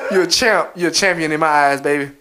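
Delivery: low, crooning praise; mock sweet flattery. Idle boyfriend flatters his working girlfriend, mock tender.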